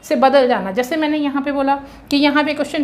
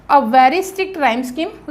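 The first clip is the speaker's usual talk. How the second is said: each word stretched out; very slow dictation; 3 dB louder, much slower than usual. Shown as a demonstration. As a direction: dictate it so every word lands. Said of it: "teacher dictates key phrase".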